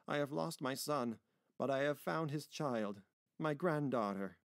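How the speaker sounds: a touch of emotion, pitch lifted; moved old man. Acted. Grandfather taking granddaughter in his arms, moved.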